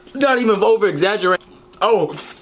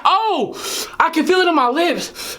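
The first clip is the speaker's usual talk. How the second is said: high, suffering exclamation; pained lament; 5 semitones higher than usual. Real, not acted. Eater overwhelmed by spicy wings, pained lament. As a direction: lament the burn in a raised voice.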